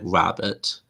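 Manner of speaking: slightly British-sounding careful pronunciation; a touch of British accent. Retold or imitated. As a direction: say it with a hint of British. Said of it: "I don't know why I sound British".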